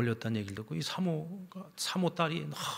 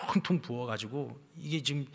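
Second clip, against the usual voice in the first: normal talking voice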